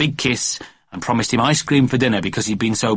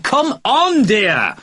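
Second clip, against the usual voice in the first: much higher, calling across a distance; calling from far off; 11 semitones higher, 4 dB louder, much slower than usual. A narrator's reading. Daddy at the front door calling Mummy, distant shout. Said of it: "said Daddy from miles away".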